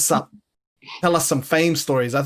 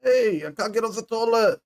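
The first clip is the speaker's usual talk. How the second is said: high-pitched mock needy call; needy guy; 7 semitones higher than usual. Co-host imagining drunk friend stuck on the toilet, needy. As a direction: play a helpless friend, pitched up. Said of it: "Not the needy guy".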